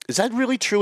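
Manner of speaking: sarcastic high pitched question; mock disbelief. Real, not acted. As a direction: feign shock at the clock. Host mocks own wasted show time.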